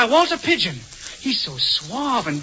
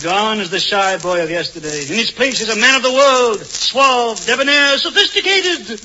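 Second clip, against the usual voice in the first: mock debonair man. To Dolores, a hammy suave playboy boasting. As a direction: present yourself as a man of the world. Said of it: "suave and sophisticated with women".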